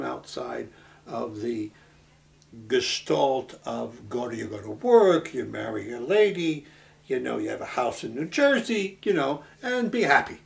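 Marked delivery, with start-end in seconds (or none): 4.1-10.4 louder, emphatic mock advice; mock life prescription. Photographer's friend voices the conventional life he escaped, mock-insistent.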